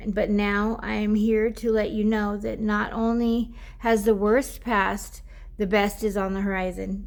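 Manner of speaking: card reading to viewers; oracle card reading. Acted. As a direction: read the guidebook aloud like a gentle message. Reads the oracle card text.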